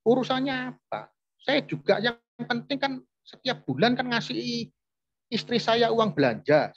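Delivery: whiny high self-justifying rant; defiant cheating husband. Retold or imitated. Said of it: "Ngomongnya begitu". (meniru suami selingkuh membela diri, suara tinggi dan ngotot)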